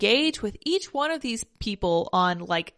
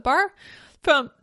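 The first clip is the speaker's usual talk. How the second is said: with hiccups; 4 dB louder than usual. Real, not acted. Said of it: "I got the hiccups again".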